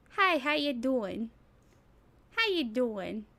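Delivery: a hint of Southern twang; Southern accent. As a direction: greet like a Southerner. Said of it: "what is this, Southern?".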